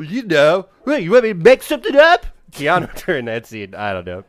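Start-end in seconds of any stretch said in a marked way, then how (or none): 0.0-2.2 much higher and louder exasperated whine; mock exasperation. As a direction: throw up your hands at the cop. Acting annoyed interrogation.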